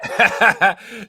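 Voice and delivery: loud, high burst of laughter; sudden high belly laugh. Real, not acted. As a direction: crack up loudly. Reacts to the played joke.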